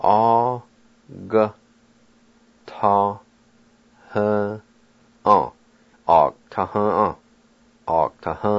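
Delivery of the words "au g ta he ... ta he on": "Au-, g-, ta-, he-, on" with a pause after each syllable; syllable-by-syllable Cherokee. Shown as a demonstration. Teacher modelling the Cherokee word for turn. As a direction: sound out "Au- ta- he- on" slowly. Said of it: "The A with the G is silent".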